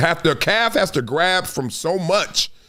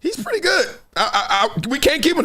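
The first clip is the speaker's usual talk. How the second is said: mock hesitation; 9 semitones higher than usual. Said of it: "and I was like".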